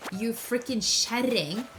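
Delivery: slow, mock-scolding jab with a slight rise; teasing, slowed-down kjerring insult, only lightly performed; mock insult to wife. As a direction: drawl out the playful insult like a northern Norwegian husband. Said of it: "So if I say".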